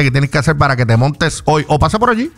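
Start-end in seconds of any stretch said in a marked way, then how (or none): 1.7-2.3 higher, urging; raised pitch urging. Acted. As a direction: push it up high. Urging listeners to stop by.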